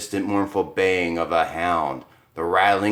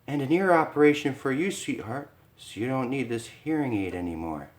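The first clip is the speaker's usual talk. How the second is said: higher, sweetly teasing wife; sweet Lisa; 5 semitones higher, 3 dB quieter than usual. Acted. Wife to husband after winning, higher sweet voice. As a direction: coo at him.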